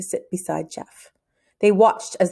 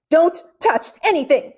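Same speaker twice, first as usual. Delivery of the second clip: high, louder panicked warning; panicked cry; 8 semitones higher, 4 dB louder than usual. Acted. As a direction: shout at him not to touch it. Panicked boy grabs friend's arm.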